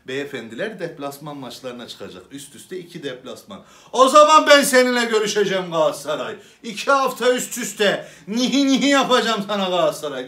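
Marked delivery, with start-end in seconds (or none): 3.9-10.3 gleeful mock threat. Comic threatening Galatasaray, laughing.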